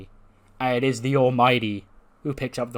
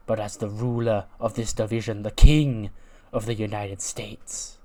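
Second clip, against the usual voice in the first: heel wrestler promo. Acted. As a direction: sneer it like a heel champion claiming the crown. Wrestler cutting a villain promo.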